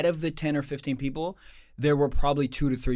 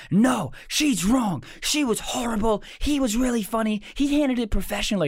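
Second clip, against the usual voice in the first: mock indignant yelling; 8 semitones higher than usual. Comedian voicing women yelling at the cruise director, mock outraged. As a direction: imitate outraged passengers pitched way up. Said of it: "like, yelling at the cruise director".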